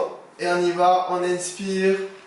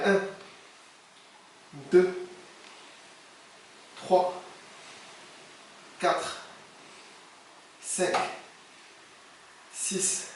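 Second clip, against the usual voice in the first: doing crunches; 9 dB quieter, much slower than usual. Real, not acted. Counting reps during crunches.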